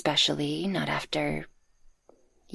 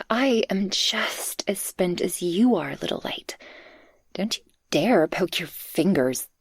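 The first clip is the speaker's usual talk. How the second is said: ASMR whisper. Acted. Speaker cradles the listener after excitement, tender whisper. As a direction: breathe it gently into their ear.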